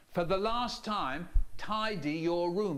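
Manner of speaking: lightly voiced stern parent losing patience. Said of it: "They say".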